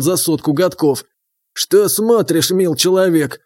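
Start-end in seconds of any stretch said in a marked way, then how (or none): 1.5-3.4 lightly voiced mumbling old man; toothless old man. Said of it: "прошамкал беззубым ртом старик".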